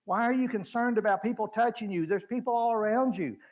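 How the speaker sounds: half-mock scolding at a silly question; mocking disbelief. Apostles mildly scolding Jesus, exasperated tone. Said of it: "Literally, they're saying".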